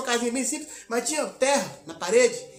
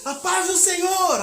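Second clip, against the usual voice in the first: higher, louder, slow greeting; cheerful greeting; 7 semitones higher, 4 dB louder, slower than usual. Retold or imitated. Converted barber greeting the missionary daily, loud and slow. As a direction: hail them as they pass by.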